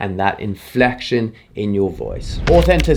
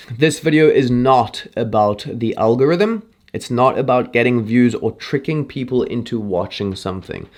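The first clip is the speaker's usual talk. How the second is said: reciting a mantra. Shown as a demonstration. Creator reading her pre-shoot mantra, earnest. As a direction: read it like a personal pledge. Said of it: "it goes a little something like this".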